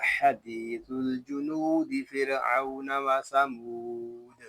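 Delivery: measured melodic tajweed recitation; steady recitation of the verses; Quran recitation. Acted.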